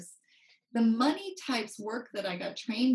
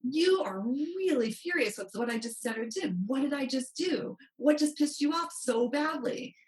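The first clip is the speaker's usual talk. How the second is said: matching her energy; 5 semitones higher than usual. Shown as a demonstration. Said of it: "I met her energy too".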